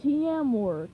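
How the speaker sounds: lightly voiced grumpy plankton; Plankton repeating. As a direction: repeat it clumsily. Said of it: "Plankton said".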